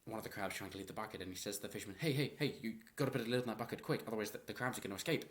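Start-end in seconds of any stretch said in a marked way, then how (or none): 2.0-5.2 panicked shout of hey hey hey; urgent warning. Retold or imitated. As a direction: hurry the fisherman, alarmed. Worried guy calling to fisherman.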